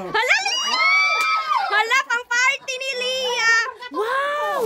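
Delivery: high excited yell; excited call. Real, not acted. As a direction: call her over thrilled. Calling out to Lia excitedly.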